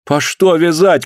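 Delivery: alarmed protest, slowed; wife protesting the arrest, alarmed cry. A narrator's reading. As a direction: cry out against it. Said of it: "крикнула Алёна".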